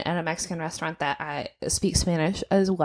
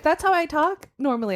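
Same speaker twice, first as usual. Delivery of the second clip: coworker's defence; 8 semitones higher than usual. Retold or imitated. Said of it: "He was like".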